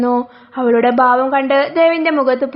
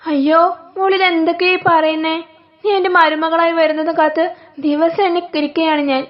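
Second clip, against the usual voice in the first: put-on higher, doting older woman's voice with a little laugh; scheming mother-in-law; 4 semitones higher than usual. Mother-in-law on the phone to her favourite, doting and higher. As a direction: play the fond mother-in-law who hates her son's wife.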